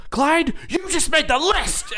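very high, loud mock taunt; Chris Jericho. Chris Jericho takes Clyde's call, high mock shout. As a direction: shout the catchphrase, cracking up. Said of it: "He goes".

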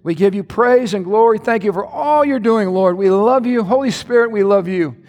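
earnest prayer with music under it. Acted. Pastor praying over congregation, earnest prayer voice. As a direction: pray over the congregation, steady and devout.

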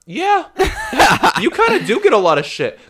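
high laughing reply. Retold or imitated. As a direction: laugh while agreeing. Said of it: "she's like".

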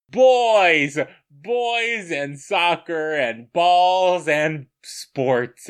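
loud, high, slow mock scream. Recalling the movie montage, a mock delighted scream. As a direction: bellow it like a delighted fan. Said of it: "just started screaming".

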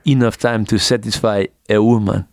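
put-on accented Belgian action-star line; mock-serious Belgian-accented movie hero; Van Damme impression. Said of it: "the best Van Damme impressions".

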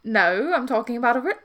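put-on British accent, breaking off mid-word. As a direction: answer in a lightly British character voice. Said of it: "let me stop doing a British accent".

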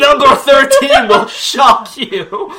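loud, slow, high clickbait hype; clickbait video narrator. Pretend. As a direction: hype it like a BuzzFeed listicle. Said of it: "going straight to BuzzFeed".

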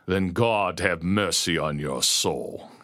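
slow menacing growl. Acted. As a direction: growl it slowly, a hint of menace. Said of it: "he growled".

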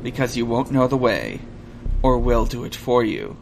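lightly voiced low android; calm measured android; robot voice. Reads robot's lines.

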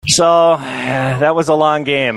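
slow, drawn-out sigh before the line; weary sigh. Real, not acted. To the crowd about the endless game, slow weary sigh. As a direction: let it sag slowly, worn out.

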